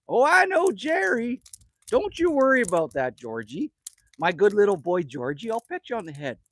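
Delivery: put-on a mom cooing to her little boy; Jenny replying. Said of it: "And Jenny's gonna go".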